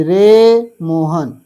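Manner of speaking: रे मोहन called slowly, stretching मो; calling out. Shown as a demonstration. Teacher calling रे मोहन as a pluta example. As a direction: call रे मोहन across a distance. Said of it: "तो इनको पुकारने में कितने? तीन".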